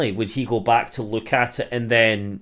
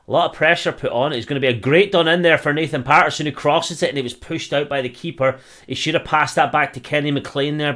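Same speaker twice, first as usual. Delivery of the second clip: louder and higher as the attack builds; excited play-by-play; 4 semitones higher, 6 dB louder than usual. Acted. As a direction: ride the rising pressure of the attack. Commentary builds on Scotland attack.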